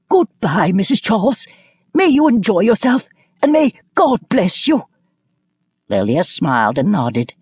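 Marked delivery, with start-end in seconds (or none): 0.1-4.8 high-pitched, quavering farewell; quivering call. A narrator's reading. Kingcroft calls goodbye to departing Missus Charles, quivering. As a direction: call out a blessing in a high, wavering voice. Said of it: "called out in a quivering voice".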